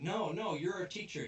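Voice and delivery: put-on high, loud protesting kids; high-pitched, hammed-up plea; mock pleading. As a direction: imitate kids begging to be recognised. Acted kids pleading with teacher.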